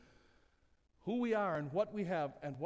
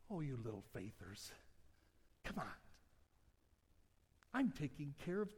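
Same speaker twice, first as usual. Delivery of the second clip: softly, like a tender father reassuring; God gently reassuring his worried children, tender; gentle fatherly voice; 3 semitones higher, 5 dB quieter than usual. Acted. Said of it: "He says to us gently".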